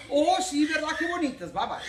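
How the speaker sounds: loud, high, oblivious husband agreeing; clueless husband. Retold or imitated. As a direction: bluster along without getting the hint. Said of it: "Y nosotros decimos".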